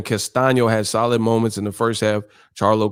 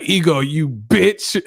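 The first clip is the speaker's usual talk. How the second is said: mocking chat troll; 4 semitones higher, much slower than usual. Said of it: "They like".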